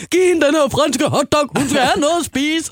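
high, loud frantic urging; panicked friends. Retold or imitated. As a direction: rush them to feed her. Panicked friends around her. (ophidset og panisk)

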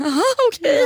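high, loud mock-cheerful aha okay; a bright fake okay to hide the hurt; sarcastic aha. Retelling her reaction to the boyfriend leaving, mock-cheerful. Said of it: "Jag var så här".

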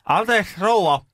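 put-on high-pitched, careful address to an old patient. Carer asking a staring old patient, polite and high. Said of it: "Sit mä kysyin".

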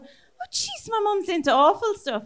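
mock shocked teen. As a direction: play the horrified kid walking in. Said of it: "I remember walking in going".

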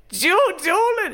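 a stunned, drawn-out guess; mock amazement. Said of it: "I was like".

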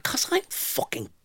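slow, high-pitched tipsy outburst, acted; loud blurted confession. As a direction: blurt it out high and drawn-out, exasperated. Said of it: "In a loud".

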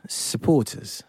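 Supporters with a mock English accent, dropping the final r; a playful American try at Leighton Buzzard English; English accent attempt. Asked to repeat it, mimicking cohost's English accent. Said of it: "Just do it again".

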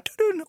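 sung-out two-note ding of a lift; imitated lift chime. Lift finally arrives upstairs, playful vocal chime. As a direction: mimic the arrival signal with your voice.

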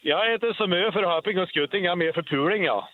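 a jokey line in broad Värmland dialect. Shown as a demonstration. Caller showing the radio host his funny dialect, Värmland accent. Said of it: "ta din liten rolig dialekt".

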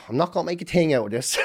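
a hushed whisper to himself; an unvoiced, secretive whisper of the plan; whispered thought. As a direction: whisper it like a private resolution.

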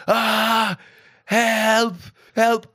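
high, loud mock scream for help; hammed-up shouts of a drowning man; retold cry for help. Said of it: "your man is screaming".

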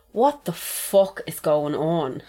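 slow, drawn-out disbelief; slow retold bewilderment; stunned disbelief. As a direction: draw each word out, aghast. Retelling stunned reaction to news.

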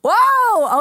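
loud, high drawn-out "whoa"; shocked protest. Retold or imitated. Woman stopping a man's accusation, shocked and loud.

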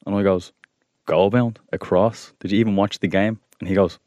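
calm TikTok voice. Acted. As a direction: keep it calm and even. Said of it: "very calm TikTok voice".

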